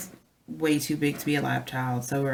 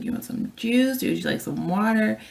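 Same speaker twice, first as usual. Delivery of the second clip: put-on higher, sing-song offer to a toddler; coaxing child; 7 semitones higher than usual. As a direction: tempt a fussing child with juice. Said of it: "I was like".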